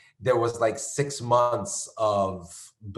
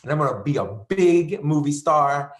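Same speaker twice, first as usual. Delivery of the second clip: louder, building hopeful boast; dreamy excitement; 4 semitones higher, 5 dB louder than usual. Retold or imitated. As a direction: pump yourself up about LA. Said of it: "I was like".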